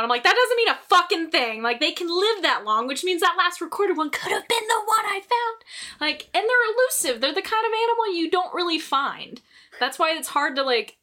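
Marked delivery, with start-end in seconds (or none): 0.2-5.6 high-pitched, insistent arguing; retold heated comeback, climbing in pitch; indignant rebuttal. Teller arguing with doubters about last recorded lion, indignant.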